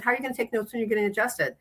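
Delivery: high, fast disbelieving question; incredulous. Retold or imitated. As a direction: ask in amused disbelief. Incredulous retort to patient.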